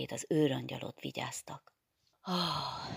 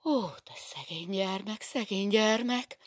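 motherly worry; 7 semitones higher than usual. Acted. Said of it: "Tört ki ... anyás felelősségérzet és aggodalom".

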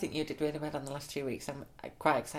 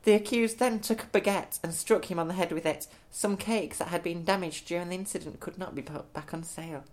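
newsreader voice; 5 dB louder than usual. Acted. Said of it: "in your best newsreader voice".

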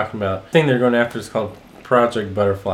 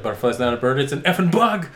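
deadpan retort; 2 semitones higher, faster than usual. Retold or imitated. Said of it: "how he, like, delivers the line".

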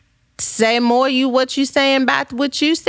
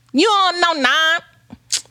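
high, slow, drawn-out teasing question; playful teasing; 8 semitones higher, much slower than usual. Real, not acted. Teasing her viewers with a high, slow drawn-out question. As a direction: tease them like they've never heard of it. Teasing the audience about naan.

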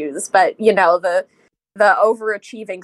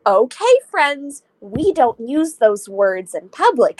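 kindergarten teacher voice. Retold or imitated. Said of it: "I start sounding like a kindergarten teacher".

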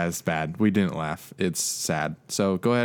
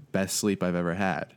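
laughing. Retold or imitated. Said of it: "I wake up and I say".

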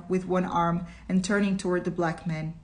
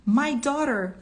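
sobbed; 6 semitones higher, 4 dB louder than usual. A narrator's reading. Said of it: "he sobbed".

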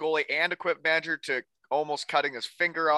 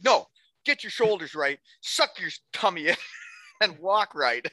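imitating a higher-pitched, nagging coach; insistent coach; 4 semitones higher than usual. Coach correcting a player's posture, insistent. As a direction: overrule him and drill each correction. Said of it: "him making fun of me".

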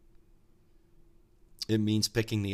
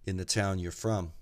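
yelling back; 4 dB louder than usual. Acted. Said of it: "the old guy yells back".

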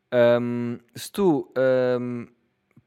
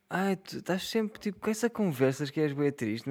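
inner little voice; 3 semitones higher than usual. Pretend. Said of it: "quando eu faço aquela vozinha de merda".

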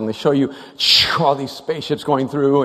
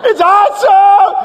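high, loud, drawn-out yell; acted exhilarated scream; thrilled shouting; 8 dB louder, much slower than usual. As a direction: holler back over the roller coaster. Brother yells back on the coaster.

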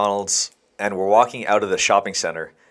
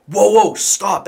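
high, slow, drawn-out whoa; urgent intervention; 9 semitones higher, 4 dB louder, slower than usual. Retold or imitated. Teller re-enacts jumping into friend's fight, urgently protesting. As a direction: imitate breaking up a scuffle.

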